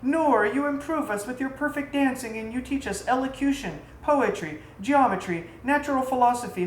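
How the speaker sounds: lightly voiced wives pleading with their queen.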